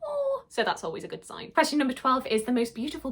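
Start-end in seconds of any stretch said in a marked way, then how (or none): 0.1-0.4 very high, tender "Aw". Retold or imitated. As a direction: coo it out very high. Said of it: "made me go".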